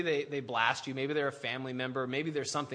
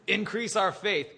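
overwhelmed plea; 5 semitones higher, 6 dB louder, slower than usual. Acted. Apostles' overwhelmed plea, after laugh.

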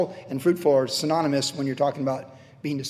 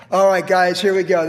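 a hint of a pep-talk coach, louder; rally the team, louder than his own talk; new head coach; 2 semitones higher, 6 dB louder than usual. New head coach Joshua rallying his men, loud pep talk. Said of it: "He's like the new head coach".

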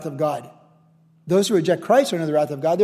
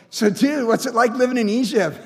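playful, higher buddy voice; chummy brother; 4 semitones higher than usual. Acted. Reconciled brothers to Joseph, chummy and joking. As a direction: play it casual and amused.

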